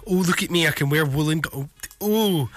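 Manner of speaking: mock-precious imitation of someone showing off. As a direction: put on a "look at me" act. Mocking actor's show-off persona.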